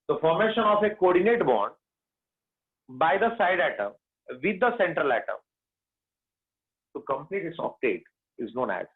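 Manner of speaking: very slow, word by word dictation. Shown as a demonstration. Teacher dictating back bonding definition, very slowly. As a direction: pace it so everyone can copy.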